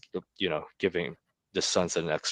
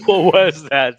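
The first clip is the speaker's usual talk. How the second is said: surprised; 9 semitones higher, 12 dB louder than usual. Retold or imitated. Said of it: "That says Jake".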